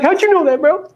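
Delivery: very high-pitched, disbelieving question; playful, exaggerated surprise up high; mock astonishment. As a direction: imitate a guy caught out. Imitating a participant's astonished reaction.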